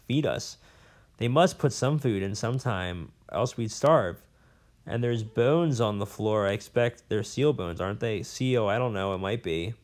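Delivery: a lightly voiced old scholar, rambling and bitter; a hint of a cranky old professor holding forth; jailed old professor. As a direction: play the disgraced academic nursing his grudges. Professor about food.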